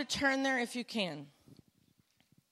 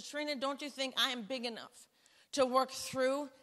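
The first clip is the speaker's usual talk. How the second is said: God's voice; 4 dB quieter than usual. Retold or imitated. Voicing God's answer.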